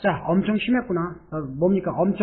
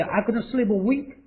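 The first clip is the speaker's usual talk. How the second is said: slow model read; 2 semitones higher, much slower than usual. Shown as a demonstration. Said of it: "teacher models the sentence".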